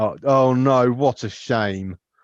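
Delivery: very slow, patronizing, sarcastic with false sympathy. Showing how trying to sound sincere comes out in a sarcastic, patronizing tone. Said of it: "everything comes out s- sarcastic or patronizing".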